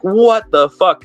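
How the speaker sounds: high, slow, drawn-out mock outrage; retold disbelief. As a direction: imitate baffled neighbours, stretching each word. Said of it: "everyone around us was like".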